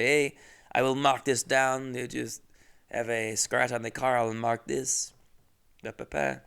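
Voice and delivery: lightly imitated French speaker; a hint of a mock French accent. French boss noting dents on the car, light French accent. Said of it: "Just a normal French guy".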